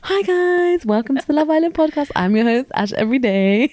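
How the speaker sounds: mocking white man presenter voice; high-pitched, put-on podcast host intro; Asha. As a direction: play the chirpy host in a fake white voice. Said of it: "And her white man voice".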